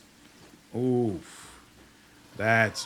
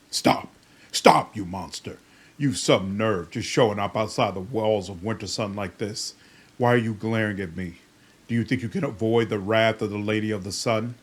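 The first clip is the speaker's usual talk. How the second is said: angry guard shouting; 4 dB louder than usual. Acted. Guard shouts at approaching monster.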